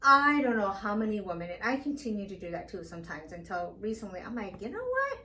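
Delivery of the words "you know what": high-pitched, rising to loud refusal; acted emphatic pushback; defiant self-talk. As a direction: push back firmly against your own doubt. Acting out refusing to doubt herself.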